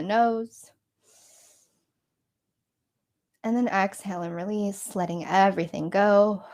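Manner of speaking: steady instructor's meditation voice with long pauses; guided meditation. Acted. Meditation leader guiding listeners to squeeze and release, in measured phrases. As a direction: guide them gently through each breath and release.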